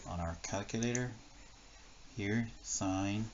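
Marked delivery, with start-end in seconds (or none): 2.6-3.3 "sine" said just like the full word; pronunciation demo. Shown as a demonstration. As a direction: say "sine" as one syllable with a long i. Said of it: "pronounced the same".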